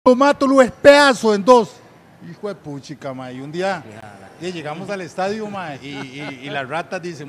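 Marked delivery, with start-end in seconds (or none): 0.0-1.7 loud, high acted rage; mock furious threat. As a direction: imitate a man raging to fight. Acted threat in fight story. (amenaza furiosa imitada, a gritos)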